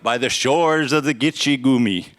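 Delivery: loud, heavy beat on SHORES and GITCHE; trochaic recitation. Shown as a demonstration. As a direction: pound out the metre of the verse. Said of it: "it's written in trochaic tetrameter".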